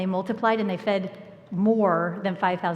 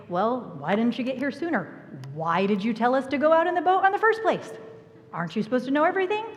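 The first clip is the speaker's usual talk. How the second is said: whiny complaint; 4 semitones higher, faster than usual. Pretend. Hard heart complaining to Jesus.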